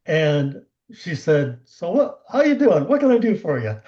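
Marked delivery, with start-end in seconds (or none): 1.6-3.8 retold upbeat greeting. Retelling client's upbeat, turned-around greeting.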